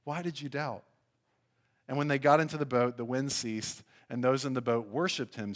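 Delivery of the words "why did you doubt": soft reproach; quiet, tender rebuke read aloud; Jesus gently chiding. A narrator's reading. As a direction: chide softly. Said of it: "took hold of him, saying".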